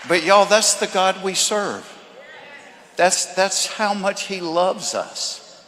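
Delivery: loud, high, slow preaching peak; preaching at full force. Acted. Preacher telling the crowd how God loves them, loud and slow. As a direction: shout the love of God to the crowd.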